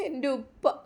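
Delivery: soft tearful cry for her father; sobbing. Acted. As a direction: break down calling out to father. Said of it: "ഹൃദയം പൊട്ടി കരഞ്ഞുകൊണ്ടിരുന്നു". (കരഞ്ഞുകൊണ്ട് ഉപ്പയെ വിളിക്കുന്നു)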